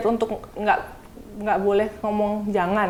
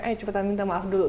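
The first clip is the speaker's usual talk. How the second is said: firm quiet prompt; 3 semitones lower, 8 dB quieter than usual. Retold or imitated. Mum taking son aside, quiet firm prompt. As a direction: lower and softer, firm but hushed. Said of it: "aku ambil anaknya".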